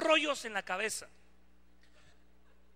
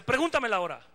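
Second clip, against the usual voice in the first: presumido; 2 semitones higher, 6 dB louder than usual. Retold or imitated. Pide la hora a todos emocionado.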